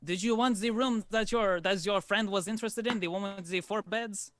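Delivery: put-on a courteous host introducing himself and his boy; lightly voiced formal innkeeper; innkeeper Nino.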